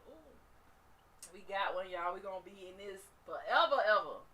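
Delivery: mock villain celebrating a catch; gloating bacteria. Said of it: "They like".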